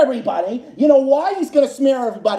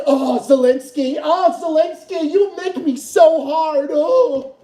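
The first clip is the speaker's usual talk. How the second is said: mock swooning; 3 semitones higher, slower than usual. Mocking fawning over Zelensky.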